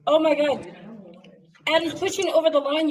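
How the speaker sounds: real amazement as the balloon moves; thrilled exclamation. Real, not acted. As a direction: shout the news out in delight. The balloon crosses the line.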